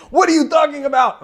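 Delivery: high, loud mock French accent, barely an accent; a bad French accent, giving up on it; failed French accent. French people weighing in, in a failed French accent. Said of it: "I can't do a French accent".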